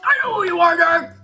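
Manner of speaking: high, loud annoyed retort; angry Katsuki. Acted. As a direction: snap back in irritation. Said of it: "Katsuki hissed".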